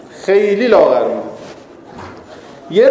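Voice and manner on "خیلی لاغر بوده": خیلی held long at usual pitch. Real, not acted. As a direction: linger on خیلی for comic effect. Repeats the thinness for comic effect.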